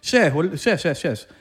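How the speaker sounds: "yes" with an Argentinian sh onset; mock Argentinian-accented English. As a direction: imitate an Argentinian speaking English. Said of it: "o los argentinos".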